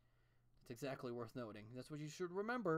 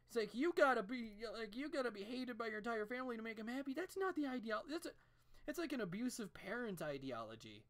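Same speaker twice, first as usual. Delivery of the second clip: exasperated rant; 8 semitones higher than usual. Real, not acted.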